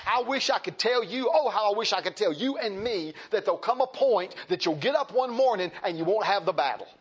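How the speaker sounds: heartfelt pulpit appeal; fervent preaching. Real, not acted. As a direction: press the wish on the congregation. Preaching with force.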